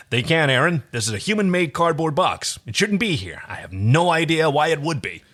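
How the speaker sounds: lightly voiced puzzled hero; baffled but calm explanation; John voice. John telling Aeryn the box should not be here, lightly voiced. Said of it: "We're just gonna do some voices".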